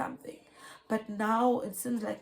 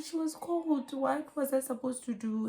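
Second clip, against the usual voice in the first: exasperated plea; 5 semitones higher than usual. Retold or imitated. Mother pleads with the nurse.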